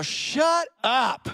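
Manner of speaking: sharp mock shout of annoyance; mock snap. Fed-up churchgoer snapping at a small-group friend. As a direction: snap back at the nagging question. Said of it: "you just wanna go".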